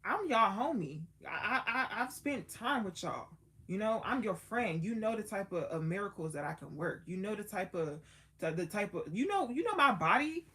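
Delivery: a friend who feels let down, building to a loud end; hurt Jesus. Retold or imitated. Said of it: "Jesus felt a type of way because Jesus, like".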